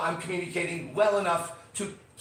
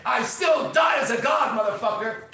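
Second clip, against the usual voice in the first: defiant shout; 3 semitones higher, 3 dB louder than usual. Real, not acted. Podcast host shouting defiance at anyone who'd threaten him, loud. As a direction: preach it like nobody can take it from you. Defiant rant about wisdom.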